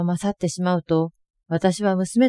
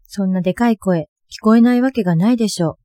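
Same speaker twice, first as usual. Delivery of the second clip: louder, fast retort; talking back; 5 dB louder, faster than usual. Retold or imitated. Mother retorting to her shouting daughter, louder and quick. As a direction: snap back, not backing down. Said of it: "私も負けずに".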